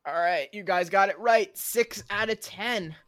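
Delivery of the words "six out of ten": odd drawn-out voice. Acted. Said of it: "I don't know why I sounded like that".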